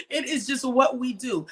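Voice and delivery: chuckling through the words; laughing. Real, not acted. Host repeating her life mantra, laughing lightly. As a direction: laugh as you say it.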